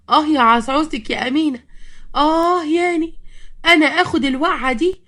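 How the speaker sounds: high, aching complaint; hurt and worn out. A narrator's reading. Fallen mother-in-law blaming Loza, aching and cross. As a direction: groan and scold through the pain. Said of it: "أمينة قالت لها وهي تعبانة".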